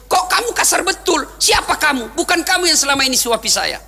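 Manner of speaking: suspicious rebuke. Acted. Blind man suspicious, rebuking Abu Bakar.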